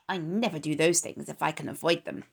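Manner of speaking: sour. Acted. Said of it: "replied the rat sourly".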